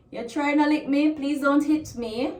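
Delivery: a please that is really a threat; threatening tone. Shown as a demonstration. Teacher shows a parent warning a child, threatening tone. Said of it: "it sounds kinda threatening".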